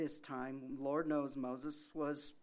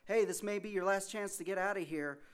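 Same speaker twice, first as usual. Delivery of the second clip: higher, louder call from a boat; urgent warning; 7 semitones higher, 5 dB louder than usual. Retold or imitated. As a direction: warn him it's his last chance. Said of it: "a boat comes by and says".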